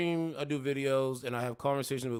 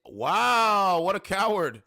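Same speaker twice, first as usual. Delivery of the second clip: scornful; 4 semitones higher, 8 dB louder, much slower than usual. Real, not acted. Mocking woman who left.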